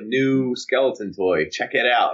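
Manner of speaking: slow monotone announcer; flat slow product showoff. Retold or imitated. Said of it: "weird monotone voice".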